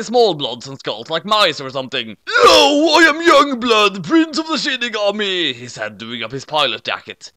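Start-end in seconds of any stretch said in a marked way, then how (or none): 2.3-5.5 much higher, louder squeaky voice; a tiny death god swaggering; squeaky Shinigami. Acted. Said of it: "short and squeaky".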